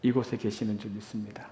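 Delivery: soft, low earnest prayer voice; hushed pastoral prayer; quiet prayer. Acted. Opening prayer before sermon.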